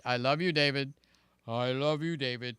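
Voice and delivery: low, put-on manly voice. Streamer redoing a greeting to a buddy, mock masculine. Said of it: "to sound a little more masculine".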